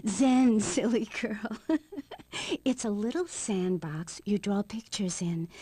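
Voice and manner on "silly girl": chuckled, slow put-down; lightly laughing rebuke; amused scolding. Acted. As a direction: laugh it off, drawing the words out. Teasing correction of host's mishearing.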